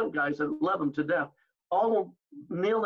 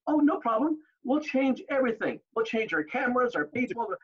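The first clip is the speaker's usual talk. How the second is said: facetious; 5 semitones higher than usual. Retold or imitated. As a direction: overdo the helpfulness to mock him. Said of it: "and being facetious".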